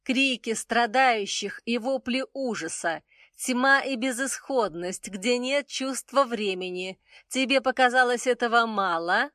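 high, cold goddess voice; icy, mocking challenge. A narrator's reading. Isis coldly rebukes Rufacil.

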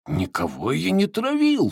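high, loud protest; crying out. A narrator's reading. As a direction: cry out, defending himself. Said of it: "вскричал толстяк". (вскрикнув, высоко и с возмущением)

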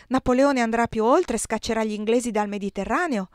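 mildly declamatory; proclaiming. A narrator's reading. Giuseppe defending Napoleon's campaign, mildly proclaimed. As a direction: proclaim it with firm, measured conviction. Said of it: "proclamò".

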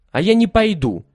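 stubborn refusal. A narrator's reading. Lilya refuses to go with her brothers, stubbornly. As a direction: refuse flatly, pouting.

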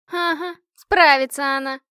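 loud, high sarcastic retort; mock the idea angrily; sarcastic objection. A narrator's reading. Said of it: "возразила Машка". (громко и саркастически возражает)

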